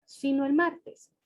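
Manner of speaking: slow, careful reading to show the pause; slow example sentence. Shown as a demonstration. Teacher reading an example slowly to show where the comma goes. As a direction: read slowly, pausing at the comma. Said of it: "Fíjense bien".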